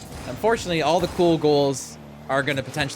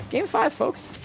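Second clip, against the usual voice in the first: hype announcer; 11 semitones higher than usual. Real, not acted. Caster hyping the next game.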